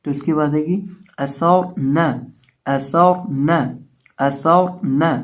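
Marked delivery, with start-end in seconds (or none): 1.2-2.1 असौर न with a thick, full R; असौर न, recited deliberately with a dark R; heavy R. Shown as a demonstration. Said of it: "इसको मोटा करके पढ़ेंगे". 2.7-5.1 असौर न with a thick, full R; thick R held before न in असौर न; heavy R. Shown as a demonstration. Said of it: "इसको मोटा करके पढ़ेंगे".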